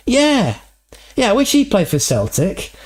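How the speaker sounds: high, put-on Scottish-Irish accent; Jerry's Celtic accent. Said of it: "the same guy, Jerry".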